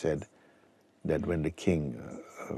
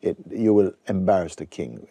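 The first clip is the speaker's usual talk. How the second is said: mock him from above, loud and scornful; scornful courtiers jeering at young Ashtavakra; 3 semitones higher, 6 dB louder than usual. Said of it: "Many of them were laughing".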